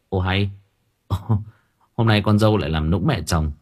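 light teasing chuckle; laughing. Acted. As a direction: laugh it off, amused. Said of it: "Bình bật cười".

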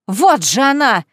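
loud triumphant cry. Acted. Cousin pointing Kaitlyn out to the crowd, loud cry. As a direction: here she is, loud.

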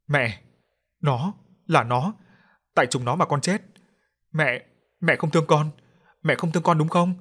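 a ghost daughter wailing her hurt; anguished wail. Acted. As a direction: daughter cries out to mother that she is unloved. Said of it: "Cô gào lên điên dại".

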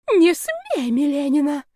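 high, alarmed wail; shrieked start, dropping as it goes; howled protest. A narrator's reading. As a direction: howl it out as a desperate warning. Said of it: "взвыла Мамия".

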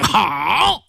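high, drawn-out crowd cheer. A narrator's reading. Onlookers applauding the prisoner's trick, cheering. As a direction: cry bravo like an onlooker, acted. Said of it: "爆出一阵喝彩声".

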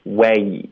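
"way" from open "weh" closing down to "ee"; gliding diphthong. Shown as a demonstration. Teacher showing the glide, "way" closing to ee. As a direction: open wide on "way", then glide shut. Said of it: "然后再咬下去到一".

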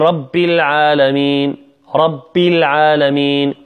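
"رب" with a "p" for the "b": "rappil". Shown as a demonstration. Teacher imitates today's reciters, p-like ba in "رب". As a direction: soften the b of "رب" into a foreign p. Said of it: "فتصبح شبيهة بحرف البي".

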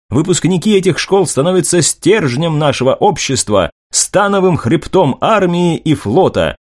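polished reporter voice, a touch lifted; newsreel reporter. Acted. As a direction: read it as a confident TV correspondent.

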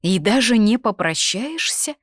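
indignant question, pitched high and pushed; sincerely indignant. A narrator's reading. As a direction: protest as if truly affronted. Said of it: "искренне возмутилась Анна".

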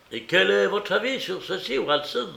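high, gleeful question to Watson; pleased with himself, tossing the question out; exclamation joyeuse, voix haute; joyful exclamation. A narrator's reading. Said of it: "s'écria joyeusement Holmes".

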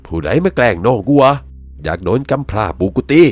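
loud, high threat in dialect; angry challenge. Acted. Brother challenges whoever scares his sibling, loud angry threat.

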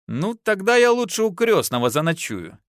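playful mock protest; wife laughing off her husband's boast; jokingly. A narrator's reading. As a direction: fend him off in jest. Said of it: "шутливо замахала баба руками".

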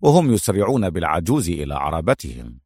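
lightly voiced low hero, measured explanation; Adham, composed deducer. Adham explains the kidnappers' plan to his foe, composed and low. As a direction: lay out the scheme in a composed low voice.

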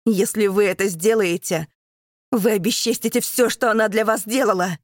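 loud, high accusing plea; impassioned shout. Acted. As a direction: shame the captain loudly. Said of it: "кричит он".

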